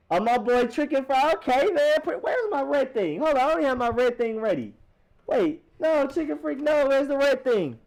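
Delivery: high, squeaky comic voice searching for his red thing; squeaky put-on voice. Streamer to chat, hunting for his red thing in a squeaky comic voice. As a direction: play it as a panicky little cartoon voice.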